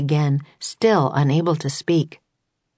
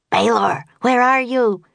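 high, frantic call; shriek; 7 semitones higher than usual. A narrator's reading. Grenda shrieking for Baylor in the fog. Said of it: "shrieked Grenda".

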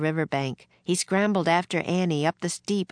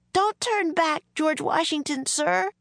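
shouted; 12 semitones higher than usual. A narrator's reading. Girl shouts at the general from the boat, urgent. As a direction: shout it out to stop him. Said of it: "she shouted".

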